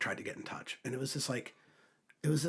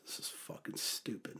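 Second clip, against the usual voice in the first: whispered scoff; 8 dB quieter than usual. Retold or imitated. Retelling refusing to pay the fine.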